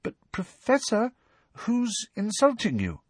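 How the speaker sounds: high, timid schoolgirl question. A narrator's reading. Pupil questioning her upset professor, timidly. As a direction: ask cautiously in a small, high voice. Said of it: "asked Parvati timidly".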